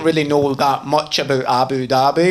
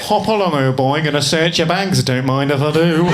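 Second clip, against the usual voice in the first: mock English old-boy official; English accent. Airport guard searching a traveller's bags, put-on English accent. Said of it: "I'll just make him English".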